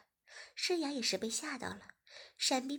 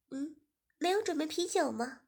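put-on higher, curious young woman; young woman asking; 5 semitones higher, 4 dB louder than usual. Guest Ziying asking the host about beer, higher. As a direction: ask it up high and eager.

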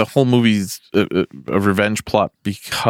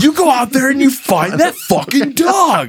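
much higher, yelling through a laugh; movie quote impression; 13 semitones higher than usual. Quoting Billy Madison to friends, high laughing yell. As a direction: bark the order like the movie scene. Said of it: "that scene from fucking Billy Madison".

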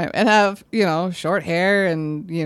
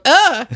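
disgusted groan; 7 semitones higher, 7 dB louder than usual. Retold or imitated. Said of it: "I literally out loud went".

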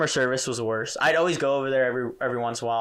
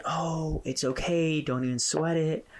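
reassuring; 5 semitones higher than usual. Retold or imitated. Voicing dad reassuring his daughter.

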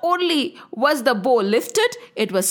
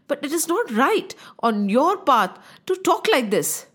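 humble apology. Acted. Young prince pacifies the angry sage over the bow, humble and calm. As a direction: reason with him gently and unhurriedly.

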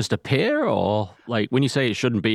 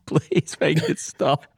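higher, strained mock whimper; 6 semitones higher, much slower than usual. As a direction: plead like you are about to cry. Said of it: "Gentle weeping".

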